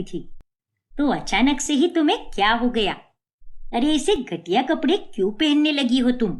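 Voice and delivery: a mild but cross mother-in-law telling them off; angry scolding. Acted. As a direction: scold the shameless girls. Mother-in-law scolding daughters-in-law at home. (बहुओं को डाँटती गुस्साई सास)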